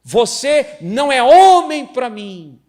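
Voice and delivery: loud, high, slow scornful cry; furious wife. Acted. Wife scorns her husband in a loud, cutting outburst. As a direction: wound him with every word.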